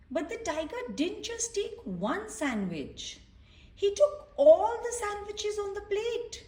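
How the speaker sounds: gentle read-aloud voice for little ones; storybook reading. A narrator's reading. Reading a picture book to children, gently storytelling.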